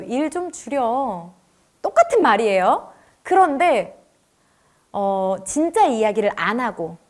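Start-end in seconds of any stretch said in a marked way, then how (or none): 0.0-1.3 gentle request. Shown as a demonstration.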